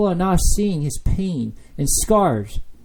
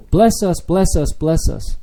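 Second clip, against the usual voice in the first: mocking people's demand; 2 semitones higher, 5 dB louder than usual. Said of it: "all they care about is".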